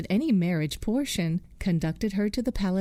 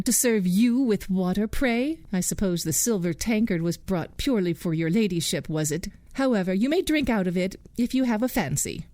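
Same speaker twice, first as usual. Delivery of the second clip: saucy. Acted. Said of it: "said the proud, saucy one".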